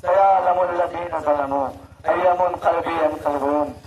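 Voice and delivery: measured sermon-closing verse, falling in pitch; closing Arabic recitation. Acted. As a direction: recite it solemnly, winding down after the lament. Closes majlis with Arabic recitation. (मजलिस के आख़िर में उतरते सुर की तिलावत)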